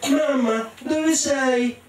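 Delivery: vocina molto acuta, tenuta; bambina che chiama. Acted. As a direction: chiama la mamma come una bimba smarrita. Bambina cieca chiama la madre. (richiamo acuto di bambina)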